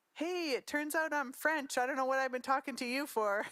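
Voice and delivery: a thrilled dad sharing news; excited father. Retold or imitated. Father phoning Ted from Montreal, excited and laughing.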